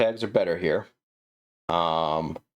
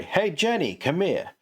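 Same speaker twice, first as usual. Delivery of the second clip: pitched-up call across the room; 11 semitones higher than usual. Shown as a demonstration. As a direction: call Jenny from twenty feet away. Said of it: "twenty feet away".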